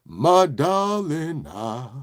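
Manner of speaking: slow, drawn-out crooning seduction; lightly hammed-up love-man croon, breaking up at the end; a soul singer. Host serenading his darling, mock soul crooner. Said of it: "it's the soul singer".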